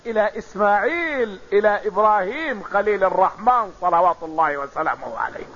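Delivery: measured, rhythmic roll call of ancestors; lineage recitation. Acted. (سرد النسب بإيقاع متمهل)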